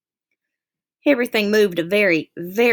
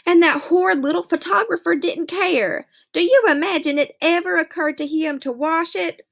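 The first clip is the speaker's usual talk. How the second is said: higher, indignant mother's voice; a mother complaining, raised voice; lightly voiced scornful mother; indignant Mama; 5 semitones higher than usual. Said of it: "She'd say".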